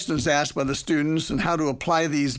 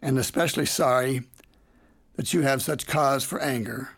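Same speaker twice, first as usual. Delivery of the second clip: mildly quiet and calm. Retold or imitated. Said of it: "I simply and quietly said".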